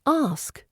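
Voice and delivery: "ask" for asks, stopping on the k; dropped final S. Shown as a demonstration. Teacher imitating Arabic speakers' error, "ask" without final s. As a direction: leave the last s off "ask". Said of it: "missing the final S entirely".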